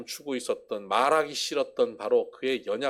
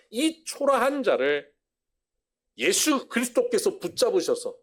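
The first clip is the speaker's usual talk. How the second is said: emphatic slow; 9 semitones higher, 5 dB louder than usual. Real, not acted. Preacher stresses humility.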